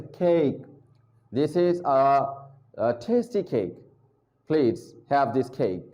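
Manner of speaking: केक with a breathy k at the start and a plain k at the end; slow, careful model of cake; slow English pronunciation demo; aspirated k, soft final k. Shown as a demonstration. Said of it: "एक में ख और एंड पे के".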